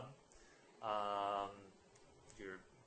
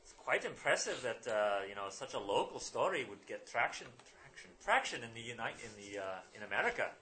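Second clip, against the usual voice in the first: put-on Irish accent; 3 semitones higher, 5 dB louder than usual. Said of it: "I'm gonna drop the accent".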